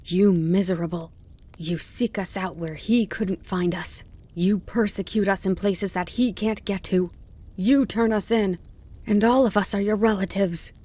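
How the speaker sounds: bitter tirade building to high, loud outrage; mounting accusation. A narrator's reading. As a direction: build from contempt to an outraged cry. Fox's tirade builds against the dog.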